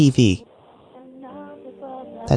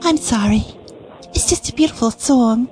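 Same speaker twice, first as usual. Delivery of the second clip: put-on higher comic Jewish accent; lightly hammed Jewish accent; 7 semitones higher than usual. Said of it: "Why do you have a Jewish accent too?".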